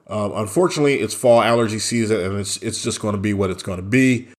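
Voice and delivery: stuffy, stopped-up nasal voice; blocked nose. Real, not acted. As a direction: talk through a congested blocked nose. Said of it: "Apologize for the voice".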